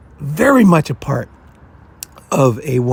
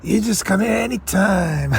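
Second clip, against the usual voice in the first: put-on Italian Godfather accent; 5 semitones higher, 3 dB quieter than usual. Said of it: "I'm doing, like, an Italian thing".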